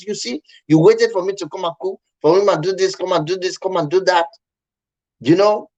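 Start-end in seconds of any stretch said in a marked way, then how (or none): 0.1-4.3 higher-pitched imitation of an aggrieved wife; retold complaint. Upset wife tells husband she waited for his help, retold complaint. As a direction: list the grievances in a raised pitch.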